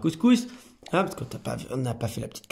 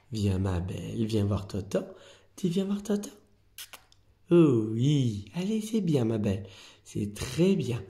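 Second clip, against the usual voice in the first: talking to a cat; 3 dB quieter than usual. Real, not acted. Coaxing a shy cat.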